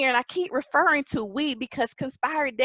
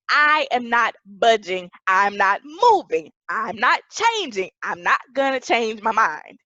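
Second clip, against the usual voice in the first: emphatic and resolute; 3 semitones lower than usual. Shown as a demonstration. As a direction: dig in on every refusal. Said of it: "which means being emphatic or resolute".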